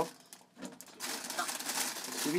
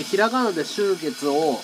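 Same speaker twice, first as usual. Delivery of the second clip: slow explaining; 5 dB louder, slower than usual. Shown as a demonstration.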